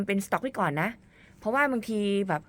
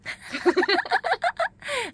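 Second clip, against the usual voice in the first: high squealing laugh; real laugh; 3 dB louder than usual. Real, not acted. Host amused by guest's modest reply, high laugh. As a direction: burst out in high-pitched giggles.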